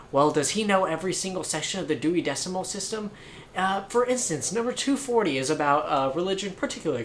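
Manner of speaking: snooty know-it-all. Retold or imitated. Mocking stuck-up girl lecturing.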